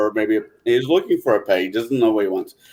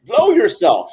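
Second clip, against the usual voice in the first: parakeet; 8 semitones higher, 3 dB louder, slower than usual. Acted. Parakeet talks back.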